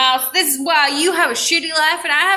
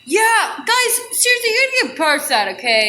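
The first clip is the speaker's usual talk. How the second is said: higher, fed-up sausage voice; exasperated sausage; 8 semitones higher than usual. Acted. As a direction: roll your eyes at the others.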